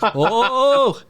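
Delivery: high, shocked oh like a stunned arena; mock crowd reacting to a cruel line; crowd gasp. Host imitates stunned crowd gasping at Christian's taunt. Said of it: "And the crowd just goes".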